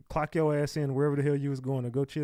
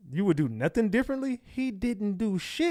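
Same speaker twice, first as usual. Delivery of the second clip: incredulous scoff; 6 semitones higher than usual. Real, not acted. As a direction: drag out the disbelief. Scoffs at the candidate's answer.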